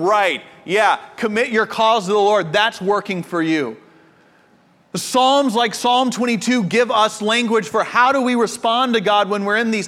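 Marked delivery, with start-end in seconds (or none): 0.0-3.8 a touch of sarcastic mockery; mocking scoffer. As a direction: tease it lightly, like a scoffer rolling their eyes. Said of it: "teasing and mocking the psalmist".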